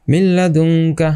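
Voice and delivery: slow মিল্লাদুনকা with a doubled ল and no nasal; recited, merged into lam. Shown as a demonstration. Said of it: "just মিলিয়ে পড়তে হবে".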